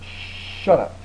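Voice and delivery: quiet shut up. Acted. Softer echo of the yell.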